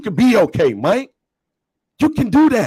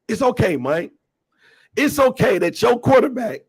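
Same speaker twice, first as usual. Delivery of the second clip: mock consoling; 3 semitones lower than usual.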